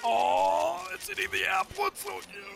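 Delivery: cute squeal. Real, not acted. Cooing at a cute Pokemon.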